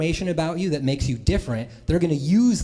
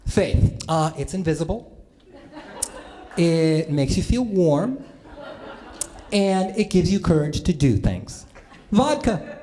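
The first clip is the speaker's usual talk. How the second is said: mom's slow speech; slower than usual. Retold or imitated. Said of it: "my mom's speech".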